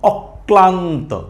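slow, drawn-out অক-ক্লান্ত for অক্লান্ত; অক্লান্ত with a double ক; doubled ক. Shown as a demonstration. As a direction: close on অক, then stretch ক্লান্ত. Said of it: "তাহলে উচ্চারণটা কি হবে?".

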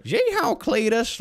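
high-pitched hammed-up Southern hollering; exaggerated Southern US yokel; Southern accent. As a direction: whoop it like a cartoon Southerner. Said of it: "seems like he had a southern accent".

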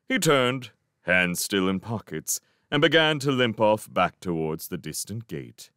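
usual speaking voice

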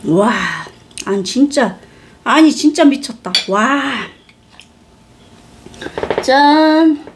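chewing while talking; talking between bites; mouth full. Real, not acted. Seen 2: holds bitten dumpling; lips pressed, chewing motions between words.

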